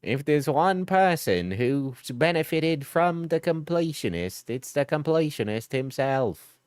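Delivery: light impression of an Australian video narrator; measured commentary voice, lightly put on; Carl Jobst. Streamer answering a viewer's voice request, light impression. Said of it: "do a Carl Jobst voice".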